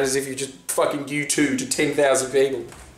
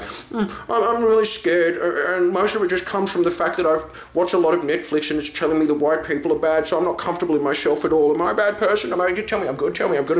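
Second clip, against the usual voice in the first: mocking anxious hipster; 3 semitones higher than usual. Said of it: "people just being like".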